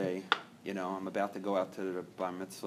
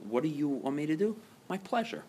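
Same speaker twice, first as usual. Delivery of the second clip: cheerful servant; 6 semitones higher than usual. Retold or imitated. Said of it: "He's just living a life of".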